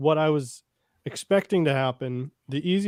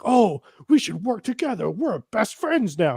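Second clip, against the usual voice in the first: high, sugary fake friendliness; lightly voiced overly chummy officer; mock sweet voice; 7 semitones higher than usual. Mocking imagined friendly officer.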